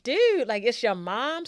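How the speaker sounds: exasperated yell. Retold or imitated. Brothers pulling him off mom.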